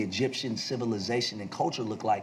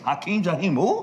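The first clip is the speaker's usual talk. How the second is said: higher, questioning rise on "who"; baffled echo question; 6 semitones higher, 4 dB louder than usual. Retold or imitated. Kid questions the caller's odd name, baffled echo question. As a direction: throw the name back in mock disbelief.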